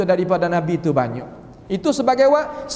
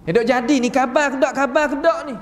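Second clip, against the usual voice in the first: insistent checking; 2 semitones higher than usual. Acted. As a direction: press the question, pitched up. Rousing a sick person more insistently.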